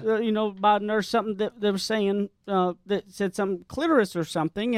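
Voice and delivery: a hint of a young mother explaining; teen girl voice. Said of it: "She goes".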